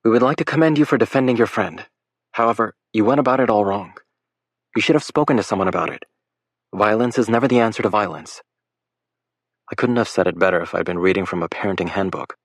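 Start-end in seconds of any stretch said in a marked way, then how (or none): 0.0-8.4 faked motherly tone. Lake scolding the boys as a pretend parent, lightly stern mother. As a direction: lecture them like a firm mom. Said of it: "in a superbly faked motherly tone".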